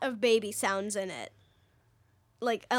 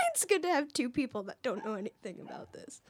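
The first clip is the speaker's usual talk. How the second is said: whispering; 7 dB quieter than usual. Real, not acted. Aside after laughing.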